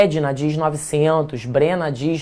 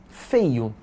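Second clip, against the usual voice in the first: incredulous echo; 4 semitones lower, 4 dB quieter than usual. Acted. Echoing students' complaint incredulously.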